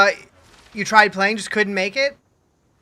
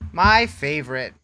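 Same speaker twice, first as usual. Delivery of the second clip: sarcastic; 4 semitones lower than usual. Real, not acted. Repeats the sarcastic line slowly.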